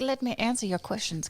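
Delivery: a hint of an obliging butler. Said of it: "it was like a butler".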